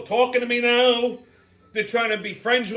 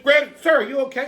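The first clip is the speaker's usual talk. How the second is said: mocking repeat; 4 semitones higher than usual. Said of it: "I said".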